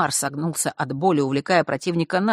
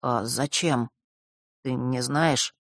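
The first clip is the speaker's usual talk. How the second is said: timid babble; 2 semitones lower, 4 dB quieter, slower than usual. A narrator's reading. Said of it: "пролепетал он необычайно робко".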